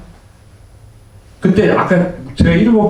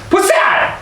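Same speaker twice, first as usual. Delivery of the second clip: put-on Gyeongsang monk accent; 13 semitones higher than usual. Gyeongsang monk shouting at a female devotee, mock gruff accent. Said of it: "경상도 스님들은 뭔가 이렇게 막".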